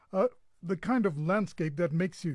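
speaking with hiccups; talking through hiccups. Real, not acted. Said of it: "I think I've got the hiccups".

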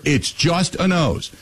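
hint of a drill sergeant brushing it off; gruff army dad. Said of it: "His words were".

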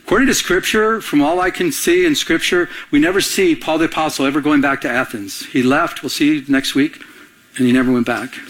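usual speaking voice

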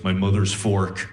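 a hint of a possessed sleepwalker; creepy low voice. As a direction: say it dead-eyed and low. Girlfriend sleep talking, creepy.

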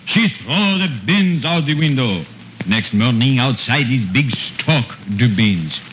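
put-on storyteller with a thick French accent throughout. Comic uncle retelling Jack and the Beanstalk in French accent. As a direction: tell the fairy tale in broken French-accented English.

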